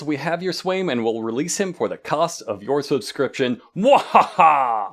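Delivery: cackling villain with ransom demand; evil laugh at the end; mad scientist. Pretend.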